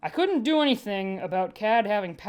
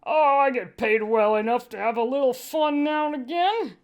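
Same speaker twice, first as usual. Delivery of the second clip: cheerful; 4 semitones higher, 4 dB louder than usual. Acted. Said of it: "Cad said cheerfully".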